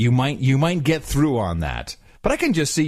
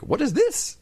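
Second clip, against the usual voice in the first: puzzled guard. Retold or imitated. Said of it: "He's like".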